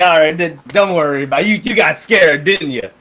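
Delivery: loud, hearty ribbing; jovial teasing. Acted. Axe man ribs the scared visitor, loud and jovial. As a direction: tease them loudly, like a big friendly bruiser.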